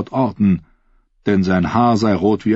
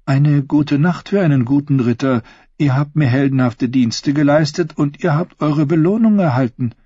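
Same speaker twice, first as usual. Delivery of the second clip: queen rewarding knight; 7 semitones higher than usual. Acted.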